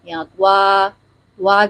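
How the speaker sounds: "طوا" with a w glide slipped in after ط; wrong rounded Ta. Shown as a demonstration. Teacher shows the wrong sound, "طوا" with added w. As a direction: round the lips so "طوا" gets a waw sound. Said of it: "یہ آواز غلط ہے".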